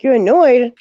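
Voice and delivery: high, loud incredulous echo; surprised echo. Retold or imitated. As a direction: echo her word in mock shock. Retold surprised reply.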